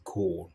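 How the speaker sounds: GOLD the Yai way, long O; GOLD with a long O and no final D; American-style pronunciation. Shown as a demonstration. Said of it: "ils prononcent comme à l'américaine".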